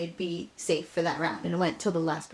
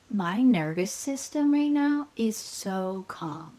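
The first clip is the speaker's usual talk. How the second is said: slow calm voice; much slower than usual. Retold or imitated. Describing calm feeling.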